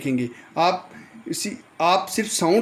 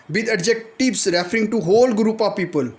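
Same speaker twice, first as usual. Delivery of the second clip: slow dictation; much slower than usual. Shown as a demonstration. Teacher reading rule slowly.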